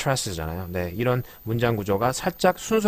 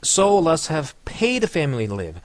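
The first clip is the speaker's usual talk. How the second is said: very slow, paid punched; teacher exaggerates paid; stress on paid; 4 semitones higher, much slower than usual. Shown as a demonstration. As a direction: lean hard on paid. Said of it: "paid가 되게 중요한 단어죠".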